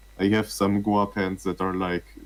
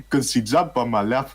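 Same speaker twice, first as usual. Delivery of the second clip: put-on Ugandan accent; 3 semitones higher, 4 dB louder than usual. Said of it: "more like a fucking Ugandan accent".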